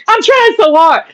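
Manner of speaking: high, slow, laughing through it; giggling while she talks. Real, not acted.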